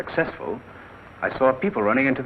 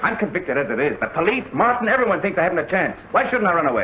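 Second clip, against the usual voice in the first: desperate pleading; 5 semitones higher than usual. Acted. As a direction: beg for a way out. Accused son pleads in desperation.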